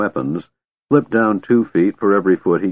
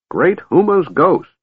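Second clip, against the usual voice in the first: astonished exclamation; 10 semitones higher than usual. A narrator's reading. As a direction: burst out in amazement. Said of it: "Fizban exclaimed".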